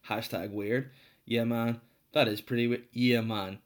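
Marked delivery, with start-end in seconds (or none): 1.2-1.8 light mock Jamaican lilt; Jamaican accent. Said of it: "I just automatically went Jamaican there". 2.9-3.6 playful mock-Jamaican exclamation; Jamaican accent. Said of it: "I just automatically went Jamaican there".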